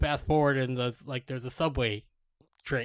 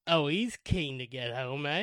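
put-on British accent. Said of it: "very funny in British".

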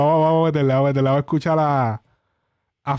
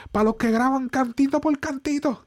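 imitating Coscu; 11 semitones higher than usual. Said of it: "como decía Coscu".

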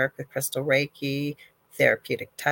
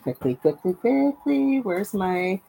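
hurried; 5 semitones higher, slower than usual. Real, not acted. Rushing, one minute left.

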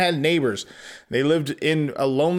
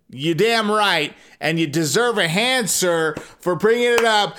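cheering approval; 4 semitones higher than usual. Real, not acted. Narrator cheers father.

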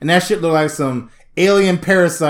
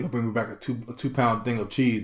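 quiet friend voice; 9 semitones lower, 13 dB quieter than usual. Retold or imitated. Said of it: "he's like".

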